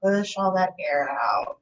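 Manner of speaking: lightly held meditation voice with long pauses; guided meditation. Acted. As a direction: guide listeners calmly through each breath. Leads a guided breathing meditation.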